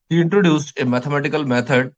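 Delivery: words stretched out slowly for note-taking; slow dictation. Shown as a demonstration. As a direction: spell it out slowly for the class to write. (धीरे-धीरे लिखवाना)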